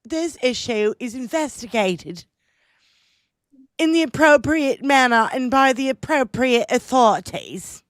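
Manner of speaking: mock-royal English accent read. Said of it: "It's a shitty English accent".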